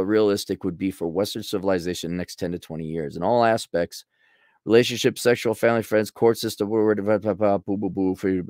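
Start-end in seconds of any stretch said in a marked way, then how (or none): 3.2-8.4 skim the list, trailing into mumbled gibberish; skimming read. Real, not acted. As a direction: run the items together and give up. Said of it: "okay, let me read through it".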